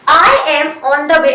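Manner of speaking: slow, careful teacher model sentence; slow model phrase. Shown as a demonstration. Teacher modelling the English phrase slowly for students. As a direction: spell it out slowly for learners. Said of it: "इसे English में बोलेंगे".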